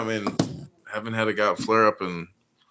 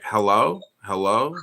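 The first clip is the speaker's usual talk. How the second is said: dismissive hello; 5 dB louder than usual. Shown as a demonstration. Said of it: "that's me being disingenuous, uh, by saying hello".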